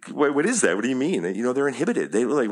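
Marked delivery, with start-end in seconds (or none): 0.1-1.2 imitating a hesitant, questioning student; mock puzzled questioning, slightly raised pitch. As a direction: play someone who questions the instruction. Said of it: "They're questioning it".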